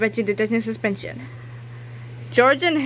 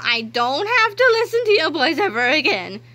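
gloating laugh; 7 semitones higher than usual. Acted. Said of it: "laughed Mister Krupp".

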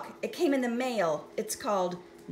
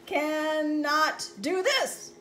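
slow lament; 4 semitones higher, slower than usual. Acted. Character lamenting slowly.

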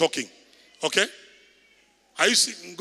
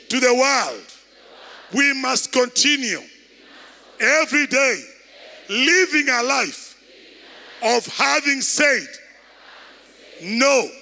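higher, slow, phrase by phrase, each pause landing; emphatic preaching; 5 semitones higher, slower than usual. Shown as a demonstration. Preacher modelling words for the church to tell a neighbor, emphatic. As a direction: lead the church to repeat it word by word.

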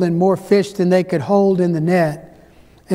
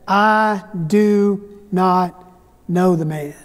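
Peter's denial; 2 semitones lower, much slower than usual. Acted. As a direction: drag each word out as if ashamed. Peter denies Jesus.

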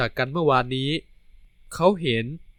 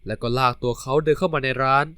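usual speaking voice

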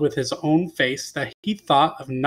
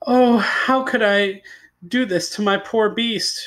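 higher, pleading cry of regret; 5 semitones higher than usual. Acted. Beauty wakes and cries for her poor beast, pleading. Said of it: "she cried".

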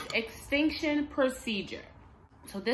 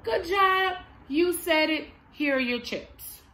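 put-on praise to child; 7 semitones higher, 3 dB louder than usual. Shown as a demonstration. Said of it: "So you would say".

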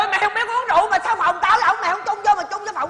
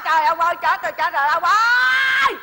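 wailing; 3 dB louder than usual. Acted. Wife wailing over shame.

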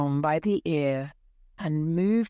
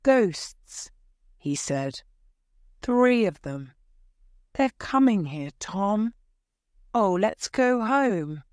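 frightened; 4 semitones higher than usual. Acted. Huck frightened by ghosts.

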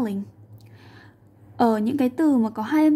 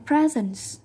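presents stressed on the first syllable, PRES-ents; weight on the opening of presents; 2 semitones higher than usual. Shown as a demonstration. Teacher choosing the noun, presents stressed on its first syllable. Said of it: "đánh trọng âm vào âm thứ nhất".

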